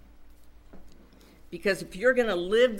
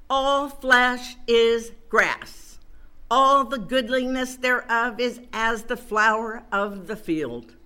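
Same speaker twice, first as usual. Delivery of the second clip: loud, slow, proclaiming every phrase; preaching scripture; 4 dB louder than usual. Acted. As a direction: thunder the verse out to the congregation. Proclaims the Isaiah passage.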